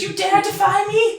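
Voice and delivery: high, slow tiny tyrant; dark lord. Acted. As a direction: threaten like a pint-sized villain. Fairy threatens.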